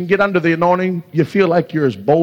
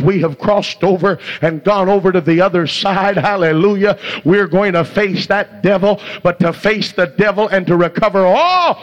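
rolling revival sermon delivery; impassioned declaration building without letup; fervent preaching; 3 semitones higher than usual. Real, not acted. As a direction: preach it in a sustained, driving stream with hallelujahs. Preaches at full force.

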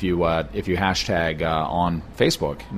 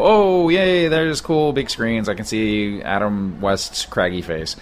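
mock excited; slower than usual. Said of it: "and you go".

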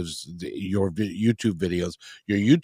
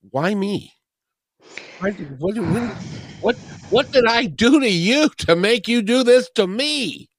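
high-pitched outcry, stammering at first and building louder; acted anguished plea; 12 semitones higher, 4 dB louder than usual. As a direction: act out a desperate why-me protest. Host voices an anguished plea.

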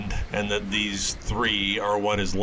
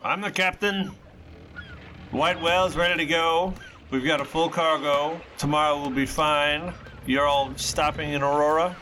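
dwarf captain voice; 7 semitones higher than usual. Acted. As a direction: bark it out like a gruff dwarf captain. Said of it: "This female dwarf steps out".

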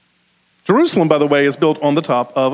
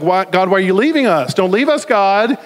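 mock pleading; 3 semitones higher than usual. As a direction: imitate a prophet begging God to stay. Acts Ezekiel pleading with God.

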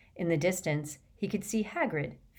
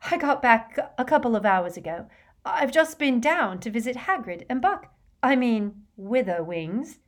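raised, hurried-sounding voice, out of breath; breathless; 6 semitones higher, 4 dB louder than usual. A narrator's reading. Hermione reaching her friends after hurrying, breathlessly. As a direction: catch your breath as you report your news. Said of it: "she said breathlessly".

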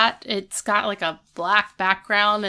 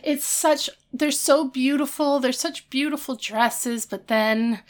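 high, hurt gushing; a bride trying not to be wounded; wistful Topanga; 6 semitones higher than usual. Retold or imitated. Bride tells the interviewer her friends disliked the dresses, high and hurt. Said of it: "Topanga's just like".

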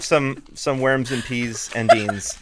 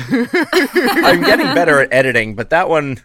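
laughing; 8 semitones higher, 10 dB louder than usual. Real, not acted. Laughing at the mic noise.

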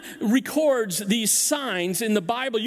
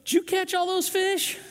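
curious stranger; 10 semitones higher than usual. Retold or imitated. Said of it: "some guy comes up to him on the dock and goes".

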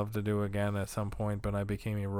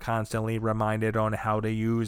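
lightly voiced robot, level and even, barely off his own voice; monotone robot voice. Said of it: "talking in a monotone robot accent".

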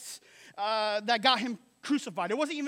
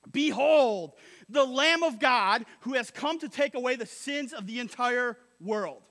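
1 proclaiming loudly; 5 dB louder than usual. Retold or imitated. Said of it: "he says this".

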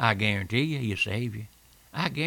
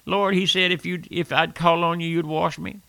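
raised, earnest plea to the Lord; pleading prayer; 5 semitones higher than usual. Retold or imitated. Preacher voicing his own prayer, higher and pleading. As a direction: beg the Lord for cleansing, voice lifted. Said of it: "The old Trailblazer said".

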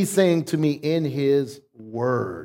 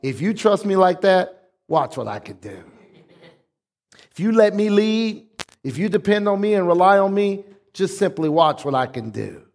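smiling God. Retold or imitated. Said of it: "he's sitting up there smiling, like".

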